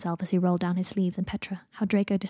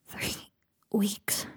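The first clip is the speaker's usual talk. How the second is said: hushed whisper; 6 dB quieter than usual. Acted. Draco weak, hushed reply.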